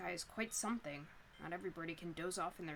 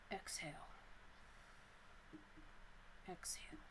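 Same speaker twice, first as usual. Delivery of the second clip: soft guided exhale; 11 dB quieter than usual. Acted. Guiding a deep breath.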